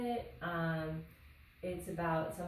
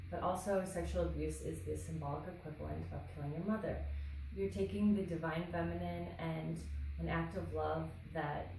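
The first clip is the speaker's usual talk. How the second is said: measured read-aloud in even phrases; composed, deliberate essay reading. Acted. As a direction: read your personal essay aloud, pausing between phrases. Reads own essay aloud.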